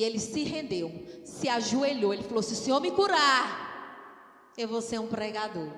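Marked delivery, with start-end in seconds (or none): 2.4-5.7 slow, restrained plea that drops at the end; understated acted vow; retold vow. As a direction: make a measured promise to God. First telling of the vow.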